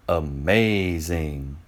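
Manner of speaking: slow, drawn-out wonder; amazed friends. Acted. Friends marvel slowly at Euclid's new line. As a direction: stretch it out in awe.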